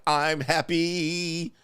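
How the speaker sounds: drawn-out, hammed-up happy declaration; showy happiness. Man waking up beside his partner, showily happy. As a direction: stretch it out with mock bliss. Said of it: "you be like".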